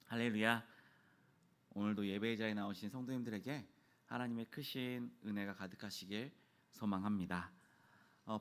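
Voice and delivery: usual speaking voice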